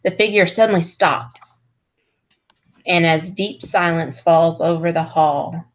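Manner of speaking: measured read-aloud narration; game master's scene setting. A narrator's reading. Game master shows the party the magnificent chamber, scene-setting narration. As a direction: read the grand description evenly and deliberately.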